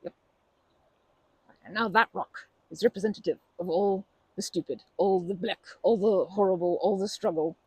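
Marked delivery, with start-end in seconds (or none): 1.6-7.6 louder, hammering each all the; emphatic list. Real, not acted. Urging her friend to fill the rock, emphatic. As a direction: pile the bad things on.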